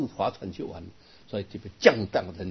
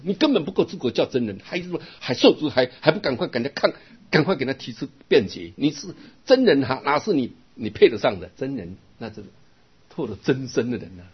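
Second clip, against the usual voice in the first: higher, louder mock rebuke from a master; retold scolding; 4 semitones higher, 5 dB louder than usual. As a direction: scold the student sharply, imitated. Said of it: "我的师父来骂我说". (模仿师父高声训斥)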